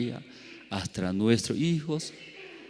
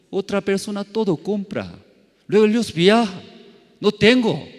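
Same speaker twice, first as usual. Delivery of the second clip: higher, louder, urgent begging; loud pleading; 9 semitones higher, 6 dB louder than usual. Retold or imitated. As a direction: plead with rising desperation. Pleading to God, retold.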